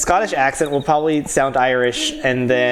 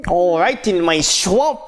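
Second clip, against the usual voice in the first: Shrek. Acted. Streamer tries out a voice for the game knight, hesitant ogre impression. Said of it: "Make him like Shrek".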